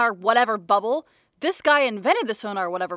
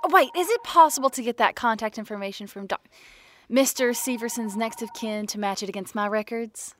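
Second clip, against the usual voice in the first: weird put-on voice. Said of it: "The weird voice thing you do kinda freaks me out".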